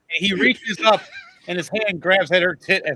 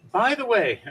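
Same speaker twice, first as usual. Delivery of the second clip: queen demanding ring; 5 dB louder than usual. Acted.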